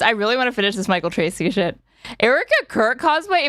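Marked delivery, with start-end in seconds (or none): 2.2-3.5 outraged disbelief. Real, not acted. Reading a viewer jab, outraged.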